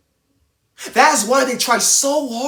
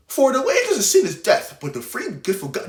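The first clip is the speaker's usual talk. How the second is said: careless reading. Shown as a demonstration. Preacher mocking a careless Bible reading, flat and throwaway. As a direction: rattle off the verse like it means nothing. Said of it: "You can't just say".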